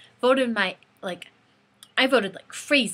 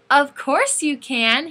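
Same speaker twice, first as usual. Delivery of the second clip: higher, louder, slow and emphatic; delighted agreement; 5 semitones higher, 6 dB louder, much slower than usual. Retold or imitated. Singer agreeing to hug a fan, delighted. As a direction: say yes with a big smile. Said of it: "the biggest smile on his face".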